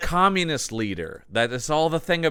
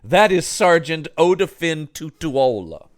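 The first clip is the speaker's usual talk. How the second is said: mock indignant correction; 2 semitones higher, 4 dB louder than usual. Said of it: "but I am like".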